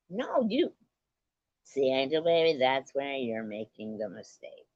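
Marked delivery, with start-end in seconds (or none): 0.1-0.7 playful retort. Real, not acted.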